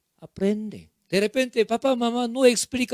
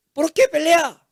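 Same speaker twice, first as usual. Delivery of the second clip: mock yelling parent, higher and emphatic; scolding parent shouting; 3 semitones higher than usual. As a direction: scold squabbling children insistently.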